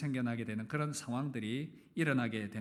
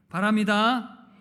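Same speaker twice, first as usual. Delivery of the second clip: much louder, higher repeated wish; emphatic exhortation; 5 semitones higher, 10 dB louder, slower than usual. Real, not acted. Preacher urging couples to talk more, loud emphatic repeat. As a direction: drive the point home to the congregation.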